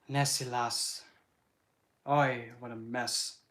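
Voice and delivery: slow, mild mock Scottish accent; a light Scottish lament, slow. Streamer fussing over Nessie, in a slow mild Scottish accent. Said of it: "to actually do the accent".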